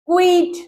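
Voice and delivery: "quit" as one syllable with an i vowel, kwit; wrong "quit". Shown as a demonstration. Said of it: "not, don't say". (quit को गलत उदाहरण की तरह, क्विट)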